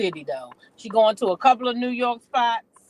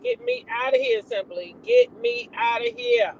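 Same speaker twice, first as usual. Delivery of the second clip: imitating a rapper; 13 semitones higher than usual. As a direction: squeal it like a panicked star. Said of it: "the rapper said".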